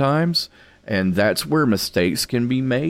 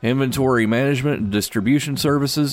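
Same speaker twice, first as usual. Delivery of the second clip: upbeat business news read; brisk announcer reading stock picks; radio market report; 2 semitones higher than usual. Acted.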